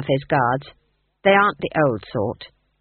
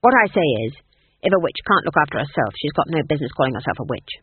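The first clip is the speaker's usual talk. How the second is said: sharp, curt, getting faster; snapped; 3 semitones lower, 4 dB louder than usual. Acted. Granny snapping at Nanny Ogg, curt and irritated. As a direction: bite off the words, irritated. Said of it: "snapped Granny".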